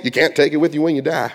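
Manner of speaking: put-on light Southern accent, quick saying. Preacher quotes a familiar saying to congregation, light Southern accent. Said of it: "I don't know why I do a Southern accent".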